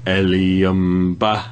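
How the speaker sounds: slow creepy. Retold or imitated. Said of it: "doing a stabbing motion and going".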